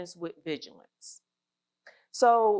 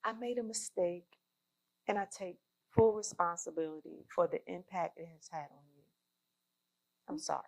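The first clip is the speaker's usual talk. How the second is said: sincere apology; 2 semitones lower, 7 dB quieter than usual. Shown as a demonstration. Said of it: "Get my acting chops on".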